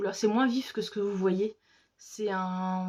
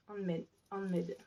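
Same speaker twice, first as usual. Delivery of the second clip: English words in a French accent; slow, softer English with a French accent; 8 dB quieter than usual. Real, not acted. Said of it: "Avec mon superbe accent toujours".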